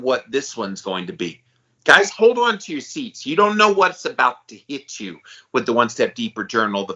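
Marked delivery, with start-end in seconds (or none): 1.8-5.2 hype. Real, not acted. Hyping the new journal.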